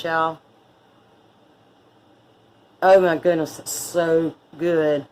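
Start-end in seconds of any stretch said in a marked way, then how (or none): 2.8-5.1 speaking while chewing; words round a bite of roll; mouth full. Real, not acted. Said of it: "talking with my mouth full".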